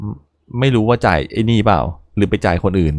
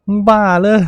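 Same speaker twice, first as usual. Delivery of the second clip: laughing; 9 semitones higher than usual. Real, not acted. Laughing at character's mix-up.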